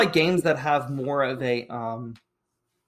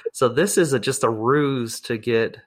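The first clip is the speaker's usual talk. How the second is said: leaning into the mic; 3 semitones lower than usual. Real, not acted. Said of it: "I'm gonna lean into the mic here".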